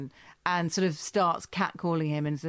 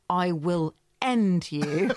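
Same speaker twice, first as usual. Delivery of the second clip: mock menace; 3 dB louder, much slower than usual. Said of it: "Kevin Eldon's eyes are pure death".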